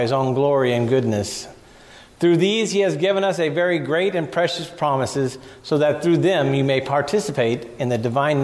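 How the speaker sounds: measured, steady reading of the passage; scripture reading. Acted. Pastor reading Peter's letter to the church, measured. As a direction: read the verses aloud to the congregation.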